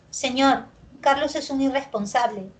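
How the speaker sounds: "Señor, Carlos es un irresponsable" starting high, falling to "irresponsable"; falling statement intonation. Shown as a demonstration. Teacher demonstrating descending tone, falling statement. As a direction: declare it and step down through "irresponsable".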